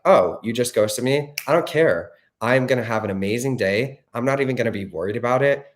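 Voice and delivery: breezy, dismissive "I don't care" voice; mock carefree. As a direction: play it unbothered and airy.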